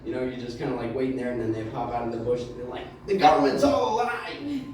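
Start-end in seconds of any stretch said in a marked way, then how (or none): 3.1-4.6 high-pitched conspiracy outburst; wild-eyed street ranter; paranoid shout. Retold or imitated. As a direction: pop out and holler it like a crank. Bush people shouting conspiracy.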